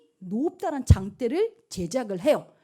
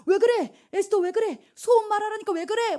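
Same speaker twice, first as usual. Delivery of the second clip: high, loud, flustered questioning; acted frantic alarm; 10 semitones higher, 5 dB louder than usual. King panics at Esther's tears, acted frantic alarm. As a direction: demand to know what is wrong. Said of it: "왕이 난리가 나요".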